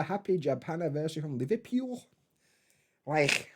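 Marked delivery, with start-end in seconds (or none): 1.4-2.0 Liverpool said in a put-on Scouse accent, higher. Shown as a demonstration. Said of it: "that were my best Liverpool accent". 3.1-3.5 hammed-up Scouse with a scraped final k; Liverpool accent. Shown as a demonstration. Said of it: "that were my best Liverpool accent".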